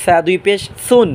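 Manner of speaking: "সা" and "সুন" softly with tongue tip at the front teeth; "সা দুই পেশ সুন" with a lisped, soft Arabic tha. Shown as a demonstration. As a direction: soften the s of "সুন" into a th. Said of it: "নরম আওয়াজে".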